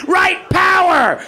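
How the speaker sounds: "Right power!" drawn out very slowly, with a hard rolled R on "Right". Shown as a demonstration. Comic showing how to punch the R in "Right". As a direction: lean hard on the R in "Right power!", slow and loud. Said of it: "You have to enunciate the R on that pretty hard".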